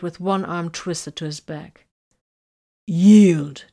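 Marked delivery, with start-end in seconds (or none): 2.9-3.7 firm loud command; stern demand. A narrator's reading. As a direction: bark the order. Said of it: "Titus demanded".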